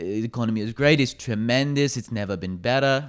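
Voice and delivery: lightly attempted politician impression; half-hearted, badly faked presidential boast; Donald Trump. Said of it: "That was a terrible Trump accent".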